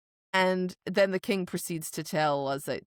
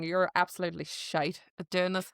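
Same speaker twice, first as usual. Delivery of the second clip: quick, amateur Irish accent; 4 dB quieter than usual. Shown as a demonstration. Joking about Irish listeners' verdict, quick amateur Irish accent. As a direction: rattle it off in light Irish. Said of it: "I get into an Irish accent".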